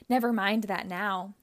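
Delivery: mild mock shout. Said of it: "shouted Robotnik".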